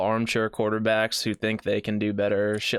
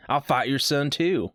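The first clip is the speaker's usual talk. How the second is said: put-on country accent; 4 semitones higher than usual. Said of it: "I do a country accent".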